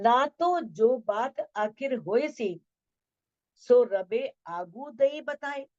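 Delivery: slow, drawn-out verse reading; stately line of scripture, lingering on each phrase; scripture verse recitation. Acted. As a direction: recite the verse with measured, lengthened words.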